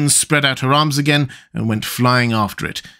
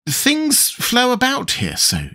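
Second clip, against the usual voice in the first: high, slow plaintive complaint; 11 semitones higher, slower than usual. A narrator's reading. Alice vexed by the drifting shop goods, plaintive. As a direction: lament it in a drawn-out, higher voice. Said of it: "said at last in a plaintive tone".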